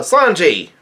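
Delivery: mild retold yell; Luffy. Luffy calling out to Sanji, mild mock yell. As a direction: call out the name, lightly acted. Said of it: "Luffy yells out".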